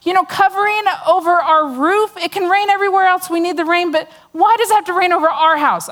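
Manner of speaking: sarcastic whine at heaven; sarcastic complaint. Retold or imitated. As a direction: lay the sarcasm on thick about the rain. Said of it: "I'm totally sarcastic".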